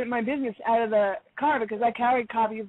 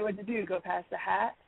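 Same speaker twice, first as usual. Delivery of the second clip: retold line said softer and lower; 5 semitones lower, 7 dB quieter than usual. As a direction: drop it to a quiet, careful question to the clerk. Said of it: "in a very soft voice".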